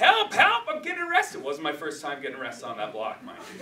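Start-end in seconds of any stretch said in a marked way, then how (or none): 0.0-1.4 put-on very high, frantic shouting. Telling of being stopped by a motorcycle cop, the speaker recalls: retelling a shout for help. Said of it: "I started shouting".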